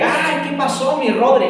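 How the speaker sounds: sweet greeting to the boss's son; sweetened tone. Retold or imitated. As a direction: suddenly turn sugary and friendly. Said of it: "sentí como que modular mi voz".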